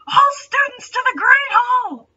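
high, loud call through the halls; booming announcement. A narrator's reading. A voice calls all students to the hall, booming loud. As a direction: summon the whole school, ringing out. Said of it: "a voice sounded through the corridors".

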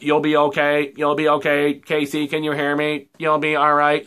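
lightly voiced, mechanical cop reassurance; hint of a robotic, uncaring cop. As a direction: say it like a bored Terminator, slow and even. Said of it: "like, a robot voice".

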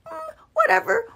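bored sarcastic. Retold or imitated. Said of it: "we don't get fazed".

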